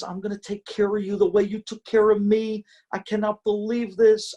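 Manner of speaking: high, bright-eyed disbelief; gushing like she just got her sight; thrilled wife. Acted. Wife thanking her husband, high and thrilled.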